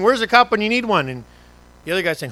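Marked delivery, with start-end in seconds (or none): 0.0-1.1 mild mock complaint. Old driver complaining.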